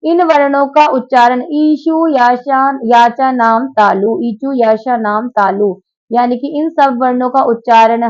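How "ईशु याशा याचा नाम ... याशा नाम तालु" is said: sutra recital. Shown as a demonstration. Teacher recites Sanskrit rule.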